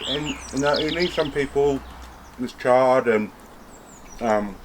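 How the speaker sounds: talking through a mouthful of steak; chewing while speaking; mouth full. Real, not acted. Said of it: "excuse me, mouthful of steak".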